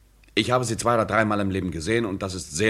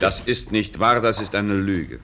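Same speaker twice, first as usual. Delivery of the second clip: heated denial; slower than usual. Acted. Frank heatedly denies the affair to his friend, slow and firm. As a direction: push back hard against the accusation.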